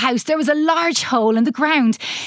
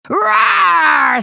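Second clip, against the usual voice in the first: put-on loud cheerful child's roar; short playful mock roar; dinosaur hello roar; 5 semitones higher, 5 dB louder than usual. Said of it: "That's hello in dinosaur".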